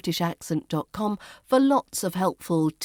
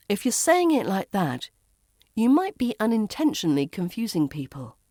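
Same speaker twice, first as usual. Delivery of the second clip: usual speaking voice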